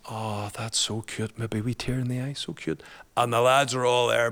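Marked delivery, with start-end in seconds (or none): 0.1-1.4 slow, softer mock coo; mimicking girls cooing. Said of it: "The girls are going". 1.4-2.8 softer, higher mock coo; cooing girls. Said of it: "The girls are going".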